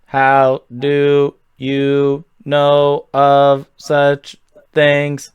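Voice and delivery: slow, even robotic guardian. Acted. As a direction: drag each word out like a machine. Robot-voiced guardian questions.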